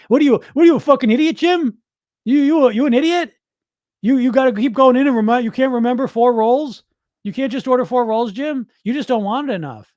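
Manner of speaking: loud, high mock tirade at himself; berating inner critic. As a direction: tear into yourself like a furious drill sergeant.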